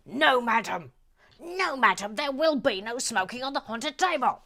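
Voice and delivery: loud, firm prohibition; mock stern refusal. Host forbids madam smoking at table, mock stern refusal. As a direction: lay down the law in mock outrage.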